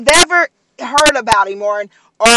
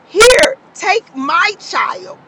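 voice breaking; 8 semitones higher, much slower than usual. Acted. Parent offering child, voice breaking.

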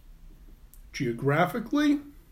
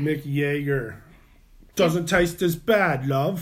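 lightly voiced rock star drawl; a hint of a rock singer, slow; slower than usual. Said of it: "that's a pretty perfect Mick Jagger impression I was just doing".

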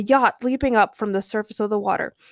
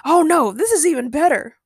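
high, loud, gleeful; animated storybook happiness; happy reply; 6 semitones higher, 5 dB louder than usual. A narrator's reading. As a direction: gush with delight, pitched up. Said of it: "Ray replied happily".

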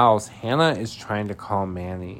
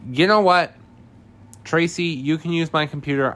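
raised, higher voice of someone fed up; mock exasperation; 8 semitones higher, 6 dB louder than usual. Recapper voices Maddie ending the phone argument, mock exasperated. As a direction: imitate someone about to storm off. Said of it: "And she storms off".

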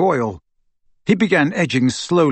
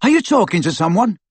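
high-pitched questioning call; 6 semitones higher, faster than usual. A narrator's reading. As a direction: call the question through a wall. Ron calls through the wall.

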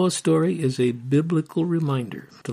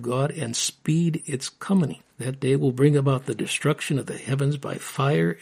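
steady reading of a memorized passage; scripture recitation. Acted. Husband recites scripture to his wife, solemn and steady.

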